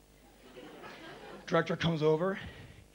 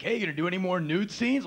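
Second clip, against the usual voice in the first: quick, higher-pitched heckle; mock taunting question, pitched up; teasing crew member; 5 semitones higher, 4 dB louder, faster than usual. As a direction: call it out fast to needle him. Acts crew guys teasing him.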